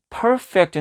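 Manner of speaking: "perfect" at natural speed, front syllable punched high; stress on first syllable. Shown as a demonstration. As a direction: hit the PER of "perfect", then fall away. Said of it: "강세가 여기 있어요".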